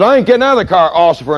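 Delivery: high, slurred refusal; a drunk driver digging in; drunk driver's defiance. Retold or imitated. Drunk driver refuses the cop, high and slurred. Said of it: "So this guy said".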